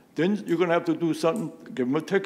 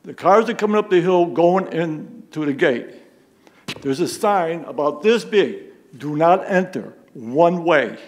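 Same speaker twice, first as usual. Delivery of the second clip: loud, emphatic public complaint; raised-voice protest; 7 dB louder than usual. Real, not acted. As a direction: press the point forcefully to the commission. Resident angrily challenges police commission.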